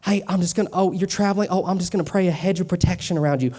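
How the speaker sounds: put-on Southern churchgoer accent. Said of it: "I'm doing this in a Southern accent".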